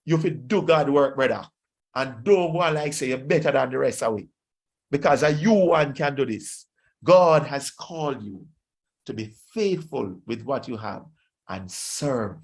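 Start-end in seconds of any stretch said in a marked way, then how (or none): 0.0-10.4 broad Jamaican Patois exhortation; Jamaican accent. Acted. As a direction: urge a brother on in Jamaican Patois. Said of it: "in my Jamaican, uh, accent and language".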